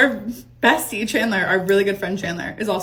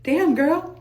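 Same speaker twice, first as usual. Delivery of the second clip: mock shock; 7 semitones higher than usual. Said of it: "looking at her being like".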